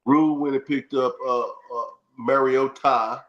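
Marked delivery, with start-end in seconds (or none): 2.2-3.2 "Mariota" with a drawn-out, stressed TA at the end; stressed name ending. Shown as a demonstration. Showing co-host how to say the player's name, "Mariota" ending in stressed "tah". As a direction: say "Mariota" slowly, landing on a long "tah". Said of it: "that's how you say his name".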